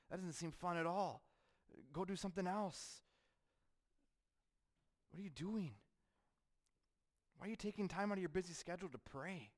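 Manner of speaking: high, incredulous needling voice of friends; mocking worldly voices. Friends and family questioning church time, high mocking voice. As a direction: needle the churchgoer as if their choices make no sense. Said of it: "as the voices of your family and friends get louder".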